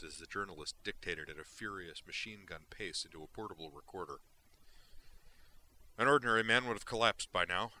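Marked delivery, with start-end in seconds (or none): 6.0-7.7 loud, driven journalist's proclamation; fervent dictation. Acted. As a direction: declaim it into the recorder.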